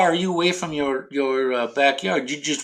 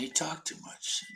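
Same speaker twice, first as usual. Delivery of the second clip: hushed whisper; 2 semitones higher, 12 dB quieter than usual. Real, not acted. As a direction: whisper it so the game won't hear. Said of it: "you gotta be quiet".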